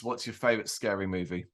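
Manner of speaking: low, quiet creepy caller voice; a lightly voiced Ghostface. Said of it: "in my worst Ghostface voice".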